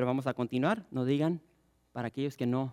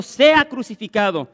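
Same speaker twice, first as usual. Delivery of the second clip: louder, higher mob cry; crowd shouting more; 7 semitones higher, 14 dB louder than usual. Acted. The crowd shouts louder still at Pilate. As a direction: shout it back even harder. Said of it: "ellos gritaban aún más".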